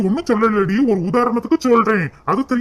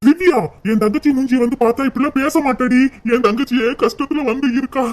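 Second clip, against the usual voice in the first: raised angry voice; 4 semitones higher than usual. Acted. Husband scolds his wife over his sister, raised angry voice. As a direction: pitch climbing, pleading and angry. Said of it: "சும்மா கத்துற வேலையெல்லாம்".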